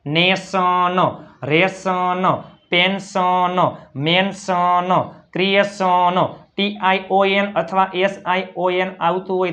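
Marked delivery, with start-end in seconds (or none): 0.1-6.2 નેશન, રેશન with the last syllable held as "so-no"; word-list drill, પેન્શન ending in a drawn-out "son"; "son" ending sound. Shown as a demonstration. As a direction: sound out each word to ક્રિએશન, stretching the ending. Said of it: "આઈનો ઉચ્ચાર થાય છે અ".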